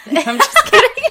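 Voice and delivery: high laughing through words. Real, not acted. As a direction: laugh it off loudly. Laughing off joke.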